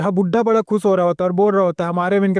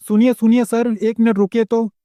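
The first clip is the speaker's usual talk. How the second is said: calling out; 2 semitones higher than usual. Acted. MC runs calling after caravan.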